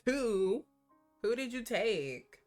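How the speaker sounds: loud high demanding question; jealous surprise. Real, not acted. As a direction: demand an answer, suddenly suspicious.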